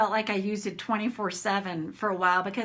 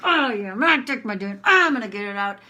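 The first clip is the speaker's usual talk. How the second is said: mock rant; 5 dB louder than usual. Pacing rant while tapping.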